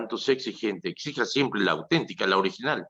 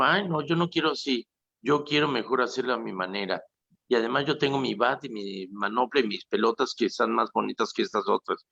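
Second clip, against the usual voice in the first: whiny dissenter; 3 semitones higher than usual. Retold or imitated. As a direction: play a petulant breakaway leader. Priest voices schismatic founder.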